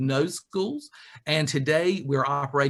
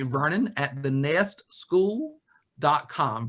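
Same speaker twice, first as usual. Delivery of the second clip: "Vernon at the nest school dot com" spelled out slowly, word by word; slow email dictation; slower than usual. Shown as a demonstration. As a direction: dictate the address slowly for notes. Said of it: "Nest is singular".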